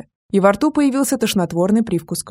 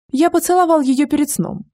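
mustache twirling villain; 7 semitones higher than usual. A narrator's reading. Gvidon taunting.

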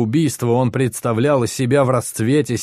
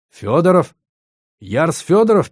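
disbelieving; 6 semitones higher, 4 dB louder than usual. A narrator's reading. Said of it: "переспросил он".

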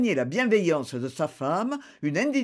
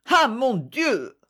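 dramatic lament; 5 semitones higher, slower than usual. A narrator's reading. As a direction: wail "Ah" like a stage despair. Wife laments the election.

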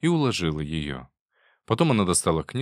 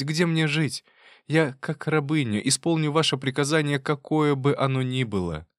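humble pleading; 6 semitones higher than usual. Acted. Wife humbly begs.

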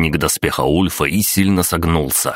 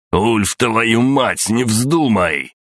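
desperate shout, much higher and slow; 7 semitones higher, much slower than usual. A narrator's reading. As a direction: yell at him not to dare. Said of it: "кричал Эйнар". (отчаянный крик, высокий и протяжный)

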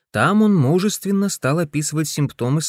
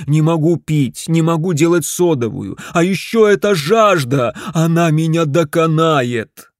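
lamenting; 4 semitones higher, 6 dB louder than usual. Acted. Husband laments.

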